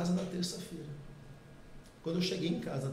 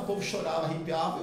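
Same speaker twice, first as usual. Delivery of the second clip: ordinary talk, nothing marked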